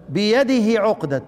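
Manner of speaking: بيده with the final هي stretched long; prolonged vowel. Shown as a demonstration. Teacher reciting بيده with full lengthening. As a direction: draw out the هي of بيده. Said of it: "ادي الاشباع".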